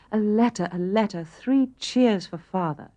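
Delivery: high, eager, delighted exclaiming; excited cry. Acted. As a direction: cheer like a child who just heard good news.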